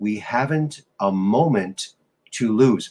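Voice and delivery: very slow delivery with dragged-out, drawn-out words. Quoting a line he would say, in a very slow delivery. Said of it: "really slowly".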